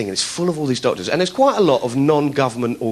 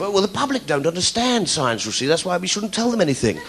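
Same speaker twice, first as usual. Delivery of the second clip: condescending scientist; 3 semitones higher, 3 dB quieter than usual. Retold or imitated. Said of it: "got this attitude of".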